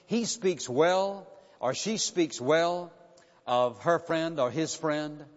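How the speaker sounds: slow, weighted words on HE and SHE; slow emphatic stress. Shown as a demonstration. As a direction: drive the point home slowly. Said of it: "preacher stresses the point".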